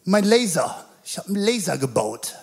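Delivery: mildly excited retelling of a proud maker; enthusiastic. Retold or imitated. Friend shows off his homemade laser in the cellar, enthusiastic. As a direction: show it off with a touch of eager excitement. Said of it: "total motiviert und begeistert".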